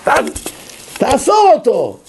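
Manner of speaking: high-pitched mock yell; furious judge's command, acted out; retold shouted order. Judge ordering policeman to arrest him, mock shout. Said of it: "הוא צועק לשוטר".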